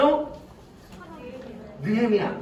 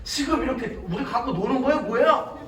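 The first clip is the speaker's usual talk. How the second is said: acted indignant complaint to God; hammed-up outraged grumbling; mock uproar. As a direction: protest in a raised, aggrieved voice. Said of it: "막 난리가 났어요".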